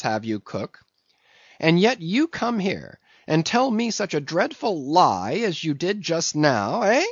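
high, rolling indignant sermon; mock-righteous mate. A narrator's reading. Mate shaming the cook about church, mock-righteous. Voices Stubb.

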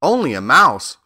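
affronted cry from a small creature; indignant. A narrator's reading. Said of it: "cried the little animal indignantly".

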